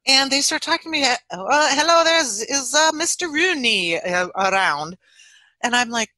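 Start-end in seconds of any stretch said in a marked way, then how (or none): 1.0-5.0 higher-pitched attempt at an Irish accent; halting, badly faked Irish accent; failed Irish accent. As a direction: try an Irish accent and miss it. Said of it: "I didn't catch the accent".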